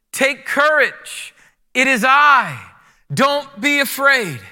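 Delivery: slow, emphatic reassurance; reassuring read. Shown as a demonstration. Pastor leading kids reading aloud, slow reassurance. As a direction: lead the room reading it slowly. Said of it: "let me hear it now".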